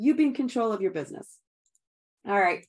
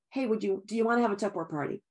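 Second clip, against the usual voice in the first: rushed yes-or-no ask; faster than usual. Shown as a demonstration. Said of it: "I'm not asking her".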